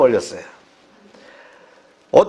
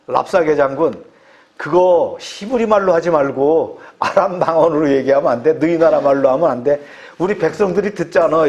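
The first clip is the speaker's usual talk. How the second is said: pleading envoys; 3 semitones lower than usual. Retold or imitated. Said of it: "이렇게 얘기하니까".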